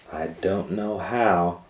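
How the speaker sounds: slow, innocent reply; mock naive; playing dumb. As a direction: pretend not to understand. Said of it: "she said stupidly".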